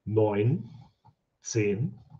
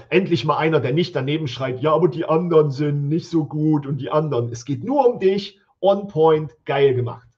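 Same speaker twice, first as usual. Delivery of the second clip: excited praise; 3 semitones higher, 5 dB louder than usual. Real, not acted. Enthusiastic praise of listing.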